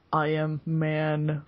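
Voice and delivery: very slow, portentous cyborg hero line; mock hero declaration. Quoting the hero's big line, very slow and portentous. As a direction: spell it out, word by heavy word.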